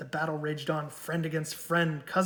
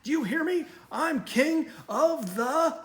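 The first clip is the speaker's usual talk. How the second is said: snarling; 11 semitones higher, 5 dB louder than usual. A narrator's reading. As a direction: drag out the boast, louder. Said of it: "he snarled".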